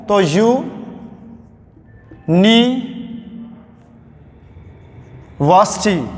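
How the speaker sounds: यू नी वर्सिटी split into slow separate syllables with pauses; slow syllable-by-syllable pronunciation demo. Shown as a demonstration. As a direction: spell out यू नी वर्सिटी beat by beat, starting on a clear यू sound. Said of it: "जब यूनिवर्सिटी का मैं तलफ़ुज़ देखूं".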